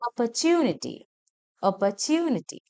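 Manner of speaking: ഓപ്പർച്യൂണിറ്റി said "op-puh-CHOO-ni-tee", the choo stretched; long YU after T. Shown as a demonstration. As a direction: lengthen യൂ in ഓപ്പർച്യൂണിറ്റി. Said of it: "നീട്ടി നമ്മൾ പറയേണ്ടത്".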